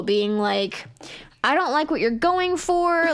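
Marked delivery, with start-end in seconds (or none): 1.4-3.1 mock English-accented douchebag. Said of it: "douchebag with an English accent".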